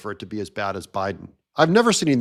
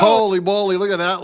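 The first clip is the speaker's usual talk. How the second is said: surprised shout; 6 semitones higher, 7 dB louder than usual. Real, not acted. Reacting to clip.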